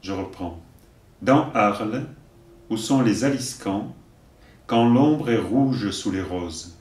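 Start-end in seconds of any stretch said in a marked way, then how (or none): 1.2-6.8 slow, deliberate verse delivery; poem recitation. Acted. Teacher giving verses for learners to repeat, measured recitation. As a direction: recite line by line, leaving room to repeat.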